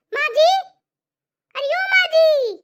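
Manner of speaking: drawn-out worried call. Acted. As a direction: slowly call her to wake up. Bahu calling fainted mother-in-law.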